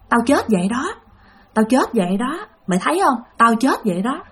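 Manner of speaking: soft, lightly voiced ghost; ghost woman. Dead woman lying beside the dreamer, lightly voiced ghost. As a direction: quietly voice a dead woman, understated.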